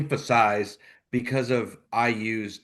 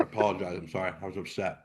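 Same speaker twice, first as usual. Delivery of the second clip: much softer, sheepish sorry after a rant; sheepish apology; 4 semitones lower, 8 dB quieter, faster than usual. Real, not acted. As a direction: back down quietly, a little embarrassed.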